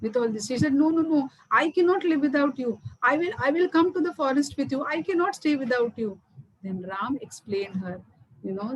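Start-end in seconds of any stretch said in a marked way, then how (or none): 0.7-6.2 mildly agitated, raised-pitch protest; upset insistence. Acted. Mother tells Ram she cannot live without him, mildly upset. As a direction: act out a mother refusing to part. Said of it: "She was very, very, very upset".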